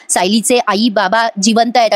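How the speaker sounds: slow, words stretched out; slow speech. Retold or imitated. Ailing man revealing a secret, slow and drawn out. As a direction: drag each word like a weak patient. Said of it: "हळूहळू बोलत असतात".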